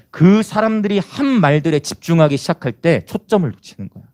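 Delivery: usual speaking voice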